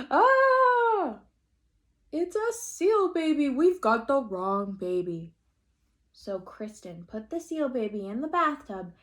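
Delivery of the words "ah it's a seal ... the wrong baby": high, loud shout; startled yell. Acted. Father slapped by the flipper, high loud yell. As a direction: yell out in surprise. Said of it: "He yelled".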